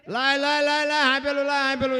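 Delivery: husband's loud, high demand for the pestle; angry demand. Retold or imitated.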